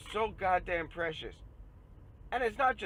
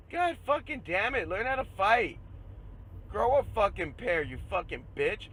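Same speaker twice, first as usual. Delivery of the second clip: angry yelling; 4 semitones higher than usual. Real, not acted. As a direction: bark the orders at them. Yelling at gun owners.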